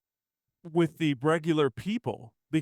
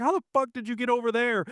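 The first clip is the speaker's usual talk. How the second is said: incredulous reaction; 9 semitones higher than usual. Retold or imitated. Retold reaction to impossible escape.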